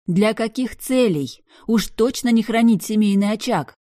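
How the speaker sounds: sarcastic angry snap; snapping back. A narrator's reading. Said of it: "огрызнулась я".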